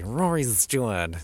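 slow, lightly mocked upper-class name-drop; mock posh Tory. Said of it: "Sounds like a posh Tory".

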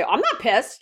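mock irritated "I'm not pissed"; a hint of an annoyed coworker denying it; pissed off denial. Coworker snapping back, mildly imitated as pissed off. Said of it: "in a very pissed off voice".

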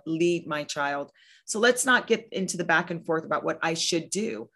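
measured boundary-setting, mildly softened; calm, unemotional. Retold or imitated. Daughter stopping her mother's parenting advice, calm and controlled. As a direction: retell a composed reply, keeping emotion out. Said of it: "speak in a very calm voice".

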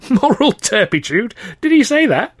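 high, squealing disbelief through laughter; laughing incredulously. Acted. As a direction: repeat it while cracking up, "Moral turpitude?" slow and high. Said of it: "Freddie laughed fit to bust".

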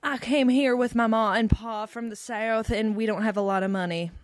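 put-on stagey musical-theater Southern accent; hammy Southern stage twang; theatrical Southern accent. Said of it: "someone told her to have a Southern accent".

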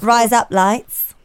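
slow, deliberate Australian accent. Shown as a demonstration. Testing a listener's accent hack, Australian accent. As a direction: try out an Australian twang slowly. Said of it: "you'll sound like an Australian".

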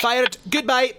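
loud, high, gleeful firing; gloating shout. Acted. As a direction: bark it out with a laugh. Boss firing coach, gloating.

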